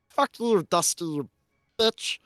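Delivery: loud, punchy insult; Glebnor. Acted. A mocking reflection insults Dusty, loud and punchy. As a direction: hurl it loudly as an accusing voice. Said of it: "the voice of Glebnor say something".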